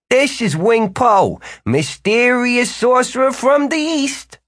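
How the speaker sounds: slow, high showman's introduction; grand announcement. A narrator's reading. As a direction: announce him like a stage act.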